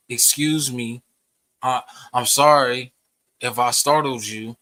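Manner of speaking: slow, measured "Excuse me"; smooth it over courteously; polite apology. Retold or imitated. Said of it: "I said, uh".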